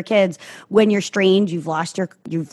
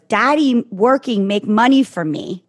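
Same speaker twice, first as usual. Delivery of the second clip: put-on toddler voice; slower than usual. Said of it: "one of them goes".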